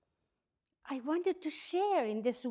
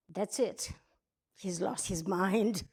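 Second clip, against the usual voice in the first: resigned verdict; 4 semitones lower than usual. Acted. Wife's private thought, acted.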